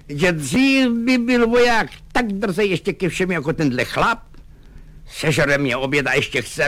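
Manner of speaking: Lukáš's angry tirade. Acted. Lieutenant berating his greedy orderly, high and indignant. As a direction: shout down the glutton.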